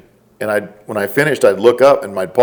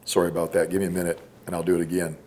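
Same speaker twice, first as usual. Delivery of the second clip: choked up; 3 semitones lower, 10 dB quieter, faster than usual. Retold or imitated. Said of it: "I'm choked up".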